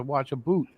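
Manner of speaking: "boot" with a long oo for bout. Retold or imitated. Retelling a Canadian customer's answer, bout said as "boot". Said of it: "they were asking for a bout".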